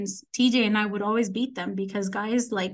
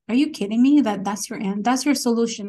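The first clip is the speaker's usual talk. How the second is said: indignant, punched opening question; furious retort; 5 dB louder than usual. Retold or imitated. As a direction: retell your outrage in short questions. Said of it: "I was furious".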